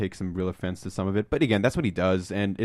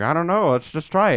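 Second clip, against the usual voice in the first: mock shrug; 9 semitones higher, 5 dB louder than usual. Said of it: "he's like".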